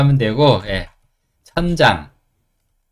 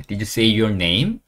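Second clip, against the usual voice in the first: very slow rising question; slow model question; much slower than usual. Shown as a demonstration. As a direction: say it slowly for learners. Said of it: "네 이름 얘기했어?". (천천히 올려 묻기)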